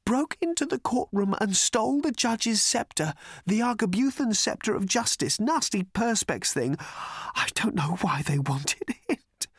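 high, weak, hoarse voice; pitiful high half-whisper. A narrator's reading. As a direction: whisper hoarsely, fading into breath at the end. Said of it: "whispered the man hoarsely".

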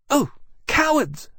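very high, slow scornful dragon voice. A narrator's reading. Fiery dragon mocking fleeing enemies, scornful. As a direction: jeer after them in a high voice.

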